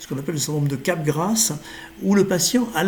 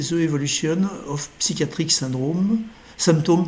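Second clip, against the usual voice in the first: English title read with a strong French accent; bad French-accented English. Real, not acted. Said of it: "mon accent anglais qui est extrêmement mauvais".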